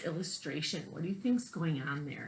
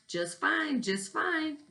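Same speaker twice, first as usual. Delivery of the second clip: put-on much higher, bright young koala reply; little koala; 11 semitones higher, slower than usual. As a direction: answer cheerfully like a small child. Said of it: "Koala Lu would reply".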